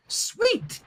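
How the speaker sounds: high, thrilled exclamation; high excited pony voice; delighted cheer. Acted. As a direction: sell it like a kid seeing something awesome. Rainbow Dash delighted by human world.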